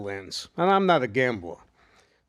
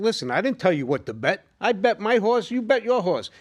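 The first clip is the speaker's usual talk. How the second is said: heated retort; 8 semitones higher than usual. Retold or imitated. The speaker snaps back at friends who bet against him, heated. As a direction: fire it back fast.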